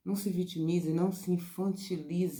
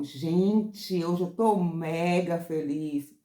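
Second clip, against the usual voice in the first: louder, slow and gushing; excited; 5 dB louder, much slower than usual. Shown as a demonstration. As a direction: gush about your happy day. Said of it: "Presta atenção à minha entonação". (entonação empolgada e alta)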